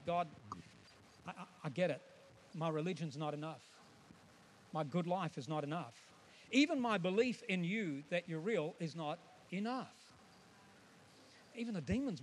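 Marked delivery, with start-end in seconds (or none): 0.1-9.9 humble prayer. Retold or imitated. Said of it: "here's what we say".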